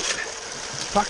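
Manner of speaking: grunting with effort through hard digging; strained breathy effort, mid-dig; straining while digging. Real, not acted. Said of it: "excuse me if I'm grunting and groaning".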